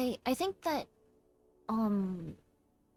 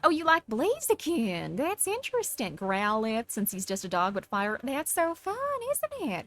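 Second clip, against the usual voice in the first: Southern Belle. Acted. Streamer chatting to viewers about Pokemon, Southern Belle. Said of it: "she does a Southern Belle better".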